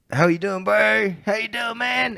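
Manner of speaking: high, singsong South African greeting; chirpy South African accent. Retold or imitated. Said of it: "I work with several South Africans".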